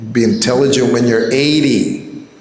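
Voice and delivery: lightly voiced stern teacher scolding; a hint of the guru's scolding tone; Prabhupada's rebuke. Guru rebuking his young servant, lightly imitated scold. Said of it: "called me a fool".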